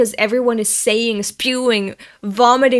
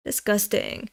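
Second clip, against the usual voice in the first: quiet repeat; 6 dB quieter than usual. Shown as a demonstration. Repeating the manga line to herself, murmured softly. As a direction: murmur "Disgusting." back to herself, much softer. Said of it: "You're disgusting".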